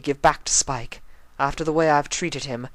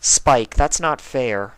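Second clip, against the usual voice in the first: protesting; 4 semitones lower, 5 dB louder, much slower than usual. Acted. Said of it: "Twilight said".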